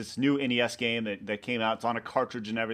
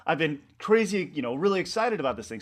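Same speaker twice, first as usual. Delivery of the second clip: mock outraged "What?", higher and louder; retold indignant disbelief, pitched up at first; imitating shocked coworker; 6 semitones higher, 4 dB louder than usual. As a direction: act out her stunned protest. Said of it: "So Corey's like".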